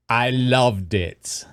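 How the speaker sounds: slow drawled "I loved it" in a mock down-south accent; Australian-ish accent. Shown as a demonstration. Showing his friend how Steve does it, slow mock Australian accent. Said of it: "That's how it sounds".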